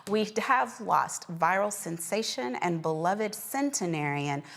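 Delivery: measured anchor reading an obituary; news read. Acted. Host reporting a beloved centenarian's death to viewers, measured news read. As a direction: deliver it as a closing news story.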